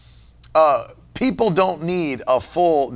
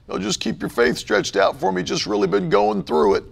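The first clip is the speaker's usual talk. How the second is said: mock pity plea; 3 semitones higher than usual. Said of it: "You'll never see me writing about it".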